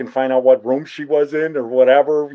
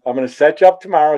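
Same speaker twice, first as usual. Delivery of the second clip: fast relished requote; 3 semitones higher, 4 dB louder, faster than usual. Retold or imitated. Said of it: "It was so good".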